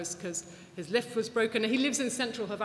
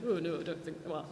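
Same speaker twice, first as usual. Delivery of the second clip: put-on northern English accent; 2 semitones lower, 4 dB quieter than usual. Quoting the Cuban writer's reply, in an unintended northern English accent. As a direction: slip accidentally into a mild northern English accent. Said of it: "why he's got northern accent".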